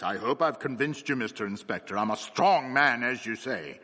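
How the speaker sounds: loud, hearty blacksmith; strong man talking loudly to the inspector. Acted. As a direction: boom it out so everyone hears. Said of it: "in a loud voice".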